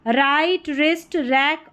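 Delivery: राइट, रिस्ट, रैक opening on r, no w; silent W. Shown as a demonstration. Teacher reading WR words aloud, silent-w demonstration. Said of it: "डब्ल्यू silent है".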